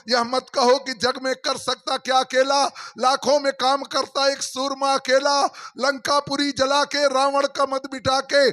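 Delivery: a preacher reciting a heroic poem to the hall; poem recitation. Acted. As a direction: recite the verse with steady, rhythmic emphasis.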